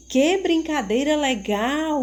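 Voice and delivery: teacher repeats the exclamation with enthusiasm; enthusiastic exclamation. Shown as a demonstration. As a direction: show the excitement in the line. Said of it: "Entusiasmo ao ler a frase".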